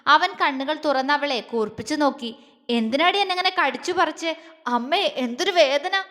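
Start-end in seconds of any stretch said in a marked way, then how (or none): 2.7-6.0 pitiful complaint. Acted. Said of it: "അവൻ അവളോട് ദയനീയമായി പറഞ്ഞുകൊണ്ട്".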